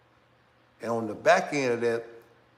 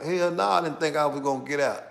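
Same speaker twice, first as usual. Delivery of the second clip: laughing; 2 semitones higher, 3 dB louder than usual. Real, not acted. Laughing about surviving prison.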